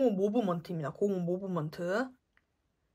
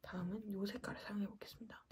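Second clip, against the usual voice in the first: whisper; 15 dB quieter, faster than usual. Real, not acted. Whispered aside while applying.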